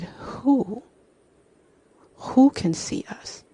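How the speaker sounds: mildly scared, high-pitched questioning; a little scared. A narrator's reading. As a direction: ask it high and slow, a touch nervous. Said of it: "starts to get a little scared".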